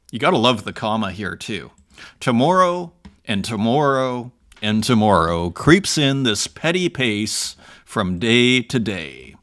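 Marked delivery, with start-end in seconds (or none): 2.2-9.3 dramatic Shakespeare recitation. Acted. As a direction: declaim Macbeth's lament with weight. Reads Macbeth speech aloud.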